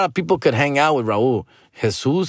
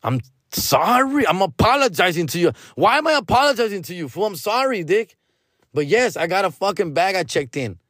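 sarcastic apology; 5 semitones higher than usual. Retold or imitated.

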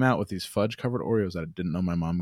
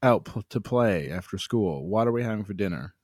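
put-on kid asking mom; 3 semitones higher than usual. Kid asking mom what's for dinner, lightly voiced eager child. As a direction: play the hungry kid begging.

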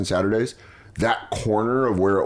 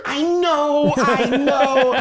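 much higher, laughing through a sing-song i know; high mock agreement; 4 dB louder, much slower than usual. Mocking himself stuck in line, high laughing voice. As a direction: squeak it out like you're in on the joke. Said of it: "I'd be like".

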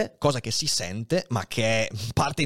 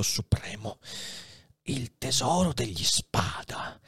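lightly voiced old man, hushed then higher, rapt; dying abbé's secret; 5 semitones higher than usual. Dying Faria reveals the treasure to Edmond, rapt. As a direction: reveal the treasure with fading strength.

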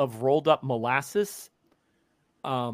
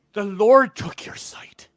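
slow, emphatic outrage; scandalised gasp; slower than usual. Acted. Peddler appalled at the blind girl, slow and outraged. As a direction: drag it out in horror. Peddler shocked, then insulting.

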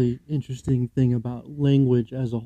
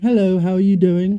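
lightly imitated British accent, raised pitch; put-on British greeting, a bit louder; 4 semitones higher, 5 dB louder than usual. Co-host imitates the London woman before her coma, British accent. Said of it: "a British accent".

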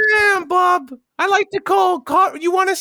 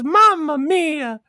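slow, drawn-out mock Italian exclamation; imitating dad; slower than usual. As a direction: stretch it out as dad's wail. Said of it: "He goes".

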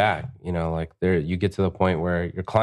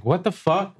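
high mock disbelief; 11 semitones higher than usual. Mad at losing the client.

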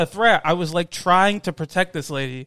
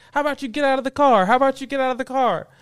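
higher, quick mock challenge; mimicked confrontational lady; 8 semitones higher, 4 dB louder, faster than usual. Driver confronting his mom at the car window, mimicked confrontational lady. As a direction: imitate her pushy demand in a raised pitch. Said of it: "the lady was like".

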